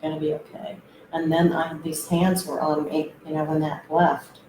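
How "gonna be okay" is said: soft, imitating whispered reassurance; retold whisper. Man reassuring her at the ayahuasca mat, retold whisper. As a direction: softly echo the whisperer. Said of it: "he was just whispering in my ear".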